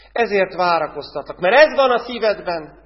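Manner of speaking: a hint of a stern Lord explaining; Jesus gently rebuking the believer.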